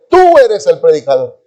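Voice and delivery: preacher's call with a punched first word; calling from afar. Retold or imitated. Preacher calling from afar to chosen man, calling out. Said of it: "el predicador desde lejos me dice".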